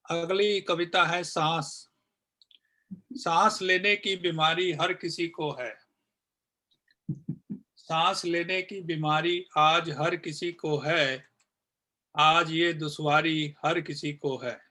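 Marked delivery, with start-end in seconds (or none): 3.1-14.6 poem recitation. Acted. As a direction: recite each line evenly, then let the final repeats die away. Recites second poem, repeated refrain. (कविता पाठ, अंत में मंद होती आवाज़)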